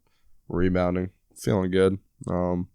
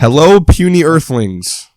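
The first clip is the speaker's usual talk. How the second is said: slow, booming alien voice, much higher and louder; giant alien booming voice; 7 semitones higher, 12 dB louder, much slower than usual. Acted. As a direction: announce it like a giant alien overlord. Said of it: "I'm an alien".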